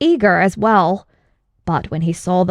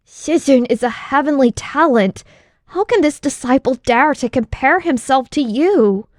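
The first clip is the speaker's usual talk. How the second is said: higher, humble disciple voice; bow your voice to the master; reverent, fearful disciple; 5 semitones higher than usual. Acted. Disciple humbly deflecting his master's challenge, reverent and fearful. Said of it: "reverent and fearful".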